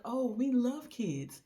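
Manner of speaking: high, slow, eager gush. Retold or imitated. Husband eagerly offers couple babysitting, high gushing. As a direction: oversell the love of kids.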